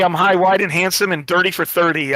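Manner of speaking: lightly imitated Australian accent; a hint of an Australian accent; Brett's Australian accent. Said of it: "in the Australian accent".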